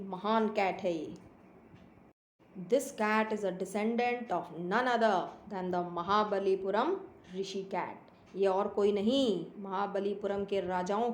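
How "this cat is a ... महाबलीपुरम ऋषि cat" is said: slow, deliberate storybook reading; story read-aloud. A narrator's reading. Boy boasting of the cat's ancestry, slow read-aloud. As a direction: read it out unhurriedly, spacing each phrase.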